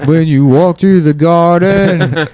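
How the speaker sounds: high, slow, hammed-up storyteller voice; slow high mock-dramatic voiceover; mock narrator voice. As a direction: read it like a grand nature narrator.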